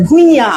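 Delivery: "ভুইয়া" ending in an open nasal-vowel aa; ঞ sounded as a vowel. Shown as a demonstration. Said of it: "ইওটা কিভাবে উচ্চারণ হচ্ছে".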